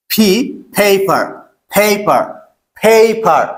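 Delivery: "পেপার" said firmly with a puffed p, falling at the end; loud aspirated P drill. Shown as a demonstration. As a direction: model "ফি, পেপার" word by word, strong aspirated p. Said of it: "এগুলো একটু loudly বলতে হবে".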